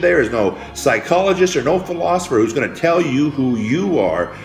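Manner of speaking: rousing preacher voice, pushing every line; preaching at full force. Acted. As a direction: preach it to the crowd, building and insistent. Motivational speech building to climax.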